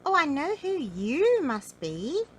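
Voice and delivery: high, loud, slow goblin singsong. A narrator's reading. Goblin recognising Mister Uppity, in a high, slow voice. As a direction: draw it out as a knowing little goblin. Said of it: "said the goblin".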